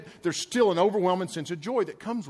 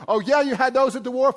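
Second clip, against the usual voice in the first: mock impressed; 7 semitones higher, 4 dB louder than usual. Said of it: "And I was like".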